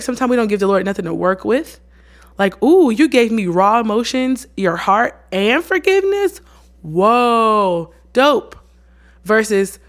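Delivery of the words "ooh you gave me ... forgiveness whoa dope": hammed-up awe, then a punchy verdict; impressed delight. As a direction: react like you got an amazing gift. Voices an impressed Lord receiving forgiveness.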